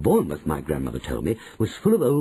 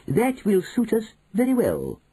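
higher, satisfied; triumphant grandmother; 11 semitones higher than usual. A narrator's reading. Grandmother to manager, higher satisfied acceptance.

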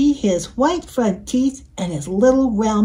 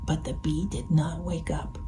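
whispering; 4 semitones lower, 9 dB quieter than usual. A narrator's reading. Story narration whispered.

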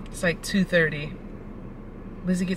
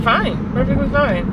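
higher, louder fake-cheerful fine; forced cheer; 6 semitones higher, 3 dB louder than usual. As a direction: say fine through clenched politeness. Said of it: "and I said".

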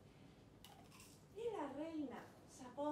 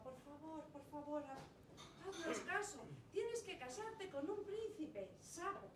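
tearful plea; 2 semitones higher than usual. Acted. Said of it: "reina lloraba".

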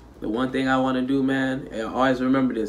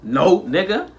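hyped reaction; 9 semitones higher, slower than usual. Real, not acted. Reacting to the video, hyped and shouting up high.

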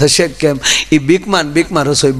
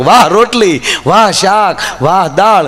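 hammed-up praise; 3 semitones higher, slower than usual. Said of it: "ત્રીજી વાર બોલ્યો".

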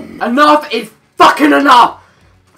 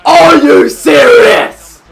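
loud, drawn-out indignant cry; outraged disbelief; 3 semitones higher, 5 dB louder, slower than usual. Real, not acted. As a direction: stretch it out in exasperation. Outraged at conceded goal.

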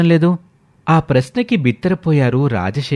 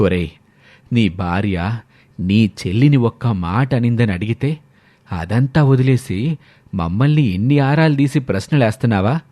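stern father; 3 semitones lower than usual. Acted. Father scolds his son over mother, lower stern voice. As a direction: speak as the wounded, stern old father.

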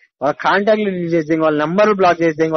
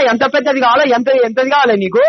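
angry taunting; 4 semitones higher than usual. Real, not acted. Furious boyfriend taunting his girlfriend on the phone, raised angry voice. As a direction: throw the insults at her, voice up and hot. Heated quarrel, abusive taunting partner.

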